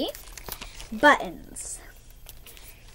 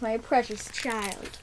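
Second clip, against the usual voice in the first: tender; slower than usual. Acted. Mother embracing daughter.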